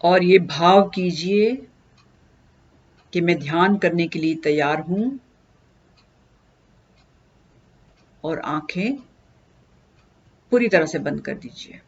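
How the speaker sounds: unhurried instruction with long pauses; guided meditation. Acted. Teacher leading listeners into breath meditation, calm guided delivery. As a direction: guide them gently into stillness, pausing between steps.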